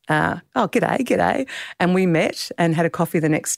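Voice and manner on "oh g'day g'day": higher-pitched, cheery Australian g'day; Australian accent. Retold or imitated. Two Australians meeting in Dublin, Australian accent greeting. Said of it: "two Australian accents".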